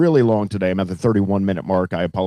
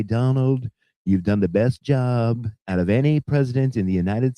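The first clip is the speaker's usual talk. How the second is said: Donald Trump impression; 3 semitones higher than usual. Host lampooning Trump bragging to his listeners, lightly voiced Trump impression. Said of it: "Trump, you know, he just talks and he exaggerates".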